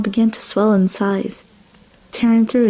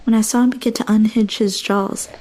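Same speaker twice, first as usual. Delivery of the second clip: ordinary delivery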